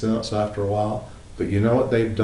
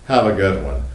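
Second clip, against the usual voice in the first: curt, louder brush-off; curt dismissal; 4 dB louder than usual. Retold or imitated. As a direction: toss it out while slamming the change. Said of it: "slam your change on the counter and go".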